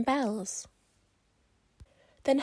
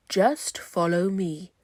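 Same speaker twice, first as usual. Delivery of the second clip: croaking toad; 3 semitones lower, 5 dB louder, slower than usual. Acted. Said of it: "croaked a lumpy old toad".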